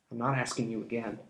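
smug, drawling scoundrel; sly thief. A narrator's reading. Thief mocking the street urchins, smug. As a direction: taunt the children lazily.

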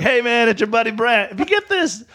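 high-pitched, acted-out caller; mock phone message. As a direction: put on a high voice for a retold voicemail.

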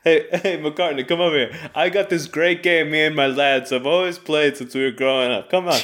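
put-on thick New York accent, teasing; brash New York guy calling out. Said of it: "New York accent".

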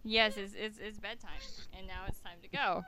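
hushed, gentle bedtime voice; soft voice. Real, not acted. Mother sending child to bed.

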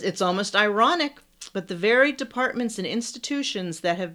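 reading a long sentence without pausing; no breath left by the end; running out of air. Real, not acted. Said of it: "I almost ran out of breath".

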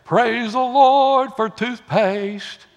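hammed-up morning praise; mock praise. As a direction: exclaim it slowly like exaggerated worship. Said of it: "do you get up in the morning and say".

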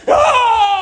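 high, loud mock battle cry; shouted sledgehammer yell. Pastor mocking know-it-all Christians with a loud high yell. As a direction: bellow it like swinging a sledgehammer. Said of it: "coming in with a sledgehammer".

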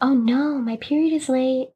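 retold dawning realization; dismayed. Bella realizing as she sees her tampons, dismayed. Retold discovery of late period.

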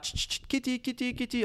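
high-pitched, soft coaxing kitty call; calling a cat. Retold or imitated. Neighbor luring the cat over, high soft calling. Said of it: "the guy start calling you".

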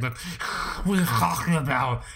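exasperated pedantic nerd with a sigh; fedora neckbeard. Retold or imitated. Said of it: "My wife hates when I do the neckbeard voice".

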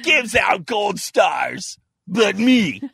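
slow, shouted and high hammed-up protest; mock indignant shout. Claiming he alone hands out gold stars, in a slow mock cry-shout. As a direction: bellow it like a wounded tyrant, half crying. Mock-declaring himself the daddy.

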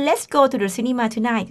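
very slow, careful classroom read; slow example read for Thai learners; slow model sentence. Shown as a demonstration. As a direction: draw each word out for the class. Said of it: "teacher models the example slowly".

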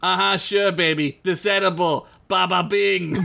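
lightly voiced Boston guy; distracted boyfriend. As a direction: brush her off, half-listening. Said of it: "he says".

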